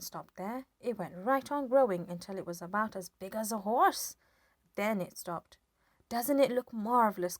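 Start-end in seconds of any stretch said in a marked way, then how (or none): 6.1-7.4 excited shout. A narrator's reading. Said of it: "George shouted".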